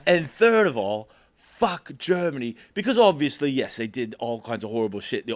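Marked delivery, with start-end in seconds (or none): 0.0-2.6 laughing through a quote. Retold or imitated. Retold British guy rant, laughing.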